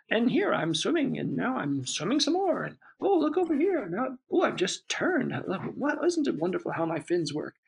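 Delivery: a goldfish showing off its fins; little fish voice. Retold or imitated. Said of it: "imagining that it was the fish".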